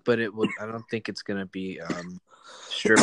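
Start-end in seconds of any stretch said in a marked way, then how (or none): 2.7-3.0 high squeal; sudden squeal. Real, not acted. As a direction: blurt it out in a squeal. Blurting the punchline.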